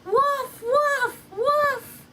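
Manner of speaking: high, loud desperate scream. Acted. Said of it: "screamed even louder".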